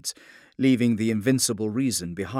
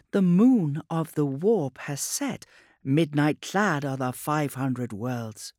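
high, slow puppet voice; eerie puppet oracle; 6 semitones higher, 4 dB louder, slower than usual. A narrator's reading. Puppet servitor giving the Lion a dark riddle, eerie. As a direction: intone a riddle slowly at raised pitch.

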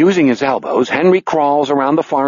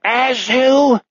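high, angry non-German cry; angry pseudo-German villain; weird non-German accent; 11 semitones higher, slower than usual. Acted. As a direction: call out in a frustrated, high-pitched mock-German accent. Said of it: "accent melts into that weird non-German".

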